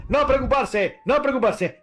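rey tranquilizando. Acted. Rey calma al pueblo.

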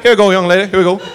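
a light southern escorting tone; gentle southern cop. Retold or imitated. Cop walking the woman out, gentle southern. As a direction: steer her out kindly.

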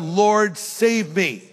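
a pleading cry for help. Acted. Peter sinking, calling to Jesus, pleading cry. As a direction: call out to be rescued. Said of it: "he cried out".

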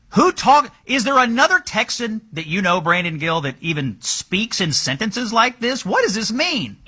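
can't believe anyone talks like this; rising, exasperated disbelief; incredulous. Real, not acted. Host baffled by candidate's words.

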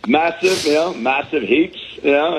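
high, hammed-up Aussie slang; Australian accent. Comedian still playing the Aussie persona on the call. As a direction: toss out massive heaps like a true Aussie.

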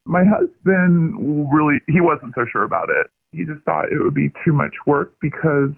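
pitch-shifted disguised phone voice; masked caller through a voice changer. Real, not acted.

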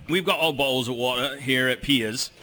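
English accent with the T's dropped; mock English accent. Shown as a demonstration. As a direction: try out a playful English accent, swallowing the T's. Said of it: "just get rid of the T's".

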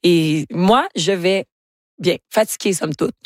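a real touch of hoarseness; tired voice with some grain in it; worn voice, slightly rough; tired, grainy voice. Real, not acted. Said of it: "On l'entend, je crois, dans ma voix".

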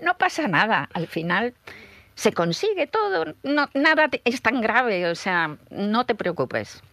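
high-pitched, soothing pep talk; reassuring younger self. Acted. Advising own anxious younger self, high reassuring tone. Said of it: "pero le diría, No, no seas tan angustiada".

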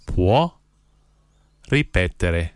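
each word set apart by long pauses; one word, pause, next word; slow, word by word. Shown as a demonstration. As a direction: spell it out slowly for learners to repeat. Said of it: "then I'll say one word at a time slowly".

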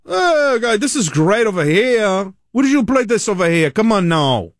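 put-on a happy old man swept up by the music; imitating an old-timer loving the song; mock delighted old-timer.

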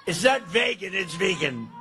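"vegan" first vay-gun then vee-gun; wife correcting pronunciation. Retold or imitated. President quoting his wife correcting his vegan. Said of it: "my wife told me".

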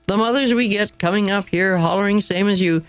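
lightly voiced rough park keeper. A narrator's reading. Park keeper reassuring the flustered teacher, lightly voiced. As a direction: chat on, unbothered.

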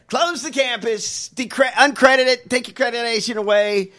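mock outraged shouting. Real, not acted.

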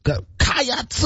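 high-pitched CATS broken into "ky-ats-uh"; extra-syllable attempt. Shown as a demonstration. Co-host trying the Kentucky cheer, CATS with an added syllable. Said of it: "You're adding a syllable".

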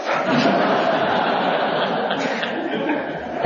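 breathy real laughter; long airy laugh. Real, not acted. Laughs at the punchline.

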